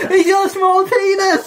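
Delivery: very high, loud, drawn-out taunt; slow sing-song mocking yell; mock crowd jeer. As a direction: imitate a whole crowd jeering gleefully. Imitating the jeering crowd.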